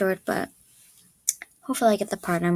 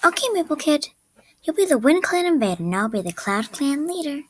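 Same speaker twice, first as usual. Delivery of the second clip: higher-pitched neutral character voice; neutral audition read; 5 semitones higher than usual. Acted. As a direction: read the line evenly, pitched up a little.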